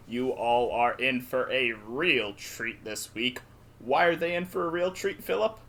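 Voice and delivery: fast, rising race caller voice; racehorse announcer. Pretend. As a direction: call it like the horses are running. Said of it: "why you're talking like a, a racehorse announcer".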